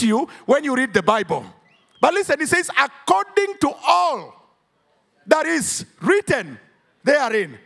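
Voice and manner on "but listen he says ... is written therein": rising, emphatic preacher voice; preaching. Acted. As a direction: preach it out with full fervour. Preaching at full force.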